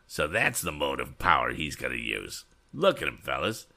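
lightly voiced scoffing bully; a hint of a mocking ringleader, playing to cronies; jeering young rival. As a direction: taunt with an altered character voice. Rival character jeers in story.

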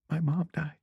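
small, high, feigned tearful voice; fake crying. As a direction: repeat it softly through put-on tears. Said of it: "So I started crying".

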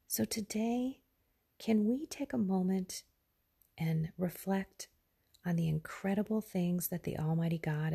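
early-morning gravelly whisper; gravelly, hushed morning voice. Real, not acted. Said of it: "bear with me with my gravelly voice".

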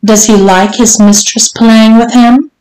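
mild taunting question with a rising end; teasing. Acted. Mistress to her servant, mildly teasing. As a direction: tease him lightly. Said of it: "Missus Johnson teased".

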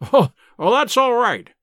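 narrated cheerful exclamation, lifted and loud; merry cry. A narrator's reading. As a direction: cry it out merrily, lightly acted. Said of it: "with a merry laugh".

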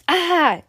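sharp high startled cry; startled yelp. Acted. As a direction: yelp in sudden fright.

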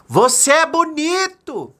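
high, slow drawn-out shout; acted long, high call. A narrator's reading. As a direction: holler a compliment across the mountains. Father calls out into mountains.

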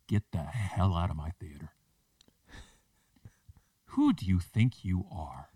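manager confronting customer. Retold or imitated. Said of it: "she looks at this lady and she goes".

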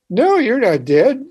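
lightly voiced old nun reassuring a patient; mock old nun. Old nun speaking gently, retold.

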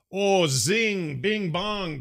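playful high sing-song; zing. Real, not acted. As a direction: tease it like a zinger. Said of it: "reacting to chat joke".

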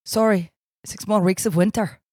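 attempted Irish accent. Playing Barry as the groundhog, in an Irish accent. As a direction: try an Irish groundhog's announcement. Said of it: "I wanna be able to do an Irish accent".

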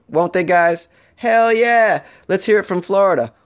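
loud, high crowd-pumping whoop; rally the crowd like an emcee; hype cheer. Acted.

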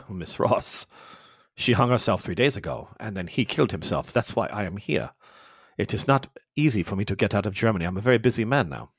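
a hint of a cold, low officer. Mueller explaining the deaths to Ross, low and cold.

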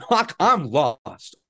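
slow, laughing through the words. Acted. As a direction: laugh helplessly as you admit it. Laughing helpless confession to doctor.

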